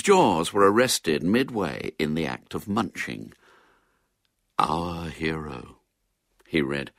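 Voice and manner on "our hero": low, slow, drawn-out storybook reading; reading aloud. A narrator's reading. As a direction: read it out slowly and solemnly.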